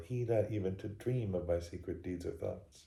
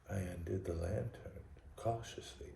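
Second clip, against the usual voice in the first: soft, secretive whisper; cautious whisper; 9 dB quieter than usual. A narrator's reading. Madman undoing the lantern by the sleeper, whispering. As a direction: whisper it as if creeping.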